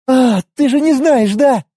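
high, happy and breathless; bursting with secret joy; happy sigh. Acted. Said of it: "Счастливо выдохнула мечница".

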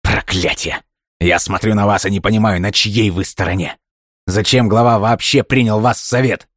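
angry shout. A narrator's reading. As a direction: lose it and shout. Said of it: "он сорвался на крик".

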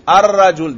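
الرجل said loudly with a doubled, rolled r; pronouncing the article. Shown as a demonstration. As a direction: sound out الرجل, leaning on the doubled r. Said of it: "دیکھو میں تلفظ کر رہا ہوں".

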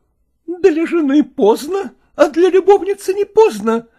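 wife mocking husband's mistress; sarcastic wife. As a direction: sneer it out with a bitter laugh.

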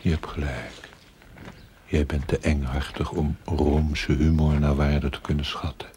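whisper. Acted. Ghostly figure mocks him.

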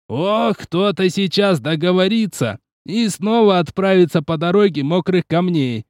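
a mock-menacing hint; narrowed-eyed threat. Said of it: "сощурился сенсей".

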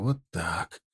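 very soft, low murmur; whispering. A narrator's reading. Marksman settling his aim, murmuring to himself in near whisper. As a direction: drop right down, as if to yourself. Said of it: "прошептал Тимофей".

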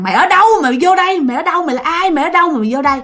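lightly acted menacing ghost; fierce ghost interrogation. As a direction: imitate an angry ghost demanding answers. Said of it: "Mà nó gào, nó dữ, nó nói".

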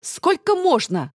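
резко, выше, медленно, с нажимом; сорвись на дочь в раздражении; раздражённый окрик. A narrator's reading. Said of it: "взъелась она". (мать взрывается на плачущую дочь, раздражённо)

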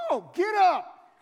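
loud, high, drawn-out shout; shouted refusal, slow and forceful; harsh command. Retold or imitated. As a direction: bellow a blunt order to stand. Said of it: "he's too harsh".

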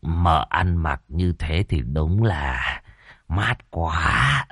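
slow, soft ingratiating flattery; a lightly voiced sly fawner; fawning. A narrator's reading. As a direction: servant flattering the lady on her outfit. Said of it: "cười cười cầu tài".

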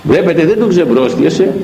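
usual speaking voice

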